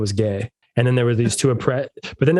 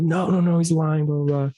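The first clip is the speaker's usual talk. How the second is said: higher, frantic protest; panicked friend; 6 semitones higher than usual. Retold or imitated. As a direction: mimic a friend freaking out. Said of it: "My friend's, like, freaking out".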